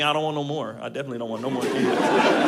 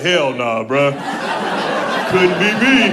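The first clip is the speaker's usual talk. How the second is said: unwilling dudes; 2 semitones lower, 6 dB louder, slower than usual. Retold or imitated. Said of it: "all the dudes is like".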